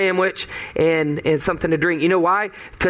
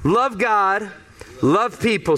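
call to congregation. Shown as a demonstration. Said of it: "Would you say it with me?".

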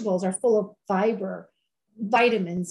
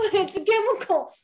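laughing; 10 semitones higher than usual. Real, not acted. Laughing at lab-made sugar.

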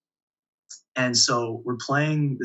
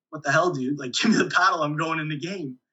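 higher-pitched, mock-exasperated plea; indignant protest; 4 semitones higher than usual. Player to assistant coach holding back the paddle, indignant. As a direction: demand it, baffled and impatient.

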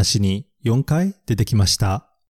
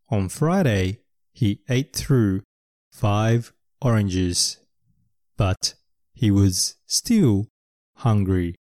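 storybook reading; much slower than usual. Acted. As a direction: read the line slowly and gently. Quoting the picture book. (静かにゆっくり絵本を読む)

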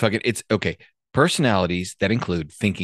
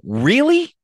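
higher, acted-out indignant comeback; mock indignation; 5 semitones higher than usual. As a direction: play someone affronted, pitch jumping up. Acts out indignant exchange with someone.

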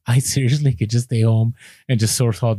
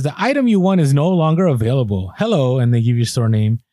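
reading the email. Retold or imitated. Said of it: "you get this email that says".

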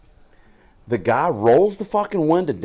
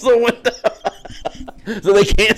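slow, higher, laughing retelling; laughing through it; 10 semitones higher, slower than usual. Real, not acted. Telling a friend the burn story, laughing. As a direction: giggle out the words.

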